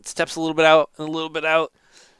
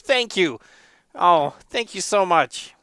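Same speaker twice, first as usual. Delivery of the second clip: mildly raised, thankful character voice; grateful monk; 3 semitones higher, slower than usual. Acted. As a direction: give heartfelt thanks, lightly in character. Monk thanks the player while paying.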